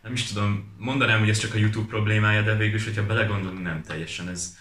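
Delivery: ordinary delivery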